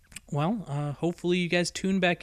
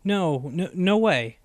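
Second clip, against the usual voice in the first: eager denial; 3 semitones higher, 5 dB louder, slower than usual. A narrator's reading. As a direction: insist fervently. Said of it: "shook her head rapidly".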